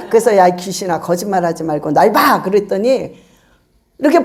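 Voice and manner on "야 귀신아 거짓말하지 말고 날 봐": low-pitched order to a demon; retold exorcist's firm command; stern command. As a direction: order it lower, without shouting.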